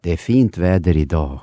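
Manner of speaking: Swedish melody. Shown as a demonstration. Swede contrasting his own falling Swedish tune. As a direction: let the Swedish sentence fall in pitch. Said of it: "Swedish, it will be like this".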